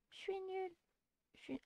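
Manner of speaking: a soft high bashful schoolgirl; shy girl voice. Shown as a demonstration. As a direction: shrink into a tiny shy voice. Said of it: "je sais plus comment faire sa voix".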